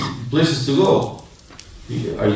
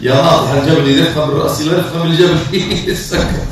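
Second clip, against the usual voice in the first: quick, laughing quote; 3 semitones higher, much faster than usual. Real, not acted. Preacher quotes a proverb to the vain man while laughing. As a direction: chuckle through the proverb.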